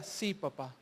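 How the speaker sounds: very soft, low reply; obedient son. Acted. Jesus answering his father's chore request, soft and submissive. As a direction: answer meekly, dropping right down.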